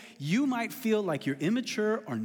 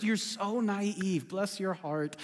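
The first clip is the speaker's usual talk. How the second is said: slow teasing; slower than usual. Real, not acted. Teasing new parents.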